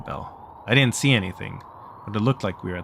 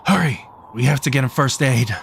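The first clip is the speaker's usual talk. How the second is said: raised, higher urgent call; vigorous urgency; 4 semitones higher, 6 dB louder than usual. Acted. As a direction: urge them on loudly, vigorously. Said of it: "Mister Kobayashi only vigorously said".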